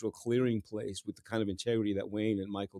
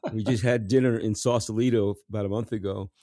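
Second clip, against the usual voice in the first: words spilling through real laughter, louder; laughing; 5 dB louder than usual. Real, not acted. Telling the host about dinner with Wayne, laughing as he speaks. Laughing after God's prince joke.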